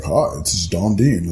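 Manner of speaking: low, slow smooth radio announcer. Retold or imitated. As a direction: imitate a deep radio host introducing himself. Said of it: "it's a radio voice".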